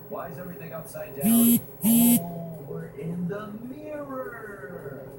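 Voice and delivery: loud, high startled yelp; startled shout. Real, not acted. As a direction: shout in sudden surprise. World suddenly turns upside down.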